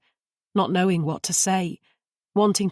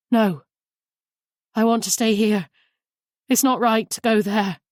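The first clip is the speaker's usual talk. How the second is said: louder, rising panic in every word; panicked; 3 semitones higher, 5 dB louder than usual. A narrator's reading. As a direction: push back in sudden alarm. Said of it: "Her voice was full of panic".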